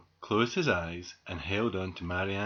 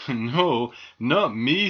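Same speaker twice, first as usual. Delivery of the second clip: louder, cocky reply; boastful refusal; 7 dB louder, much slower than usual. A narrator's reading. Squirrel showing off to the doll, boastful refusal. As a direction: brush off the warning.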